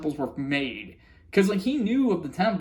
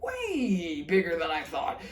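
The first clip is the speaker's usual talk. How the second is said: higher, slow awestruck gasp; ecstatic Marcy; 4 semitones higher, 5 dB quieter than usual. Retold or imitated. Marcy meeting King Andreas, slow, higher, awestruck. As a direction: starstruck little fan meeting her idol. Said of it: "beyond ecstatic".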